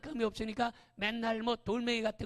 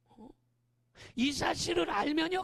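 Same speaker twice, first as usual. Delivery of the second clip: ordinary delivery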